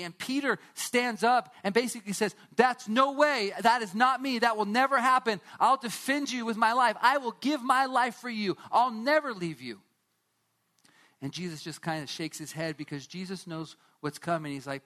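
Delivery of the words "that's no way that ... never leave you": loud, insistent vow of loyalty; vehement protest. Acted. Peter loudly swearing to Jesus he will never leave. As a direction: swear it like your life depends on it.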